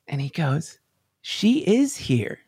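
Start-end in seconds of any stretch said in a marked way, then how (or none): 1.2-2.4 slow, higher, imitating a smiling teacher; smiling reassurance. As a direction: say it slowly through a smile. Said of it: "he gets this big smile".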